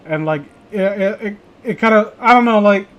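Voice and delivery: tripping over words; stammering, restarting each phrase; stuttering. Real, not acted. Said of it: "I'm stuttering over myself more than usual".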